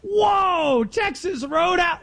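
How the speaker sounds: a British tourist gawping in wonder; hammed-up British accent, amazed; bad British accent. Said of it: "international fan".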